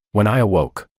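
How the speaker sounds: usual speaking voice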